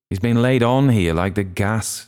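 arch. A narrator's reading. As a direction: pitch it up with knowing irony. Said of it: "in the same tone".

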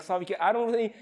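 building to an eager high promise; swelling into a heartfelt vow of loyalty; fervent friend's promise. Retold or imitated. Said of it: "people will come alongside me and like".

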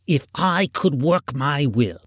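put-on indignant old miser's tirade; scornful, aggrieved Scrooge voice. A narrator's reading. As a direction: rant against the season as a crotchety old man. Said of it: "said Scrooge indignantly".

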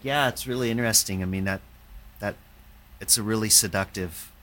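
put-on light Welsh accent; a hint of a Welsh accent. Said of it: "in his Welsh accent".

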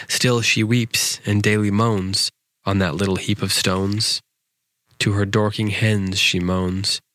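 measured, rhythmic storybook verse; poem reading. A narrator's reading. Host reads a nonsense poem for younger listeners, rhythmic recital. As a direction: read nonsense verse aloud, leaning into the rhyme.

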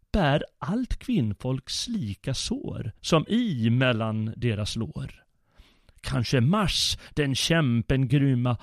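put-on curious child. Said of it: "skrek han".

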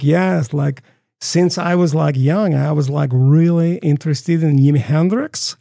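put-on unhurried Swedish-accented English. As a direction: imitate a Swede speaking English, drawn out. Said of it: "this one guy named Jon".

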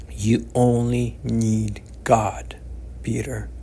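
slow, gentle reassurance. Acted. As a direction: say it slowly, like a calm old man reassuring. Old man comforting Peter.

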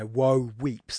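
WOE, WEEPS, both heavy and slow; two equal stresses. Shown as a demonstration. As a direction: give "woe" and "weeps" full stress each. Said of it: "That's two stressed syllables".

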